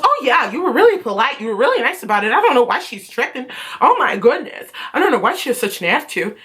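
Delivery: lilting, swooping imitation of agreement; mock sympathy. Teacher siding with upset student, in mock sing-song sympathy. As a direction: imitate a teacher cooing along.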